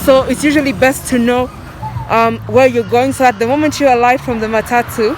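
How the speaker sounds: muffled behind a face mask; speaking through a mask, words muffled. Real, not acted. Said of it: "it's really difficult to speak with a mask on".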